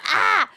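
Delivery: short, high mock cry; mock scream. Heroine throwing her little ring in, mock scream. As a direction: let out a playful yelp.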